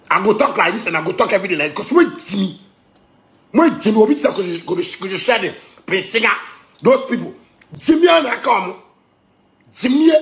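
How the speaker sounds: agitated fast rant. Real, not acted. Speaker rants about radio preachers, fast agitated rant. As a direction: rattle it off worked up.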